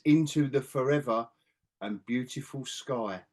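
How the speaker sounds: slow, solemn quote of a film line; near-tearful quote. Retold or imitated. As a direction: imitate an earnest line, slowing and softening toward the end. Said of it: "I thought you were gonna start crying".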